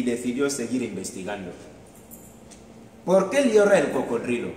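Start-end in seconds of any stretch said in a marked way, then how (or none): 3.0-4.5 high, loud eager question; little bird asking brightly; excited question. Acted. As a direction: ask it bursting with curiosity. Plover asks again.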